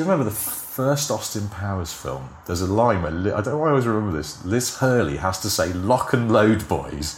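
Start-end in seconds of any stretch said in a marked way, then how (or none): 5.7-7.2 put-on posh English accent. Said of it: "in her well-spoken English accent".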